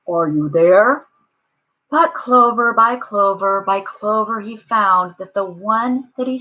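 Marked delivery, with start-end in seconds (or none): 0.1-1.1 searching call with a rise. A narrator's reading. Horton searching clovers for his friends, calling out. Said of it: "and called".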